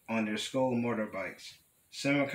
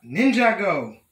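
high, loud, drawn-out battle cry; ringing cry; 9 semitones higher, 11 dB louder than usual. A narrator's reading. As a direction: let it ring out like a rallying call. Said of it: "a cry rang out".

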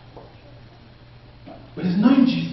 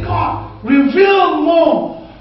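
crying out to God; slower than usual. Acted. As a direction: call it out slowly toward heaven. Preacher voices a prayer.

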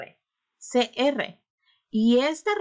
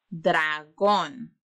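slow model repetition; 5 semitones lower than usual. Shown as a demonstration. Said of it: "Repitan conmigo".

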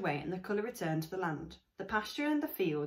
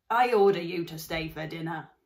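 very improper voice; 10 dB louder than usual. Acted. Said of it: "In a very improper voice".

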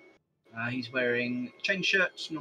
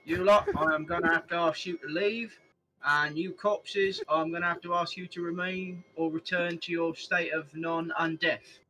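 loud commanding guardsman; stern guard captain; 4 semitones higher, 4 dB louder than usual. Acted. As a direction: bellow orders at a crowd. Player voices his guard character.

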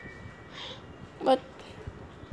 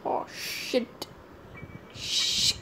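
whispering; 8 dB quieter, much slower than usual. Real, not acted. Hiding, whispering in fear.

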